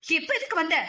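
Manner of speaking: scornful aunt lashing out; contemptuous anger. Acted. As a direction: spit the words at her niece. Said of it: "பெரியம்மாவின் கோபத்தை".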